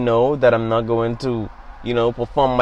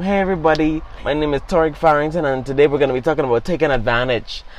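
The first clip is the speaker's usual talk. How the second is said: put-on slightly higher young presenter opener; self-imitated video intro; 3 semitones higher than usual. Son re-enacting his first video's intro, lightly imitated presenter. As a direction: lightly mimic your own beginner video greeting. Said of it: "the video I made".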